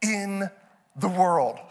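word-by-word exasperation; frustrated disbelief. Retold or imitated. Dad frustrated in his head, halting exasperated disbelief. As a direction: pause after each word in frustration. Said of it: "I'm getting frustrated".

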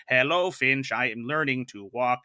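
lightly voiced computerized robot; hint of a stiff Russian-accented robot. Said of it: "a Russian-esque, like, uh, computerized robot voice".

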